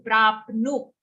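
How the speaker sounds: "Prapnu" with a vowelless p and short nu; half pa, short nu. Shown as a demonstration. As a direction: stop on the p of "Prapnu", then a brief nu. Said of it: "and then short nu".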